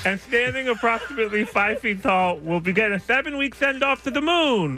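talking through a mouth guard; news read with a mouthful of plastic. Real, not acted. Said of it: "just watching the saliva buildup".

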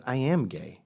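lightly put-on gay man's voice; imitated friend, mildly affected. Friend coming out, in a mock gay voice. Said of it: "I'm making him, uh, a gay voice".

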